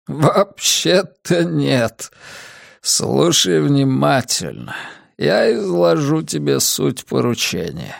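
put-on slow, tired old man; fading strength, words dragged; weak old man voice. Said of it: "мои силы тают быстрее".

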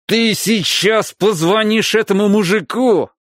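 loud, threatening yell; angry shout. A narrator's reading. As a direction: yell it at him. Father threatens son.

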